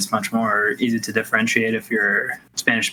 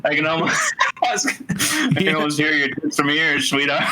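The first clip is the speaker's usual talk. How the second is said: 1 sleazy flirt; 4 semitones higher than usual. Pretend. Lewd joke imitation.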